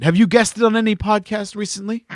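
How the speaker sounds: slyly knowing question. Real, not acted. Host needling co-host about guest spots, knowingly. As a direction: ask as if you already know the answer. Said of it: "He said knowingly".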